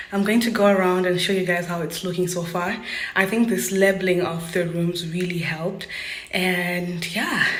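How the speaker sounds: breathless from running up stairs; winded, talking fast between breaths. Real, not acted. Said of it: "I'm sorry I'm out of breath".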